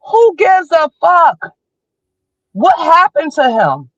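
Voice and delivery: high, slow, furious shout. Real, not acted. Outraged at the parents' interview, a slow furious high shout. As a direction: yell it out in outrage.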